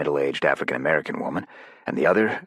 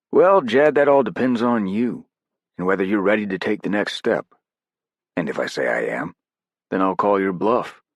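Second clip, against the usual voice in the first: voiced operator, pitched up; character voice, higher and louder; 6 semitones higher, 4 dB louder than usual. Narrator voicing Morvant's dialogue.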